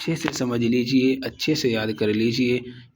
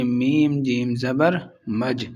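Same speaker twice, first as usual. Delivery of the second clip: slow spelling drill; slower than usual. Shown as a demonstration. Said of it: "میم کو ہم جیم کے ساتھ ملا کر پڑھیں گے".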